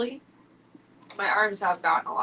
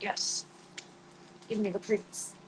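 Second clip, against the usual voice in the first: voicing the cat; 11 dB quieter than usual. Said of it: "Zeke's like".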